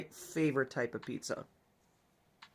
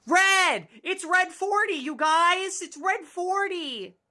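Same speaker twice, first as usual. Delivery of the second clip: excited shout; 13 semitones higher, slower than usual. Acted. Player spots the dog Red forty, excited shouting. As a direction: greet the dog with joy.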